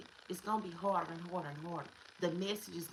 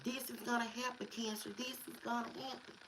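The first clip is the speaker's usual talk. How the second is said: God warning; 5 semitones higher, 4 dB quieter than usual. Retold or imitated. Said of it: "He barking at your Cancer".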